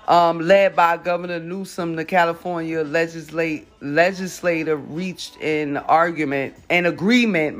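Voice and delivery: stoner. Real, not acted. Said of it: "reading all fucked up".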